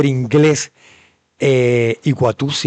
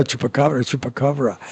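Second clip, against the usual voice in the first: put-on "chupacabra" in a soft American accent; gringo pronunciation; 5 dB quieter than usual. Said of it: "la dicen igualita".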